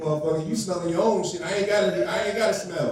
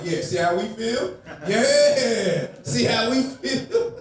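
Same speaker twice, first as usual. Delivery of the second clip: gloating laugh; 2 semitones higher, much slower than usual. Retold or imitated. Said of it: "I'm like".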